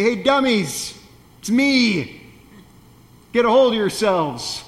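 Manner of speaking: a mock-annoyed Jesus telling off his friends, lightly voiced; exasperated scolding. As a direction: roll your eyes at the foolish friends. What I would say as Jesus.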